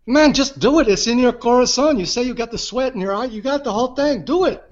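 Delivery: mock-excited pep talk; eager urging. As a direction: egg him on like a hyped-up friend. Madrid friend eagerly urging narrator.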